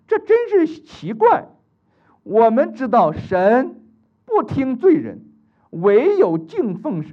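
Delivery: loud, slow, defiant testimony; bold healed blind man. Acted. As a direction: stand up to the Pharisees. (坚定有力地为主作见证)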